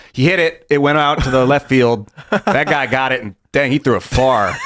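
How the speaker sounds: lightly voiced amateur sports report; casual sportscaster. Former student reporter recalling sports job, understated sportscaster voice. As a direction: call the play like a folksy student reporter. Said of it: "So I was that guy".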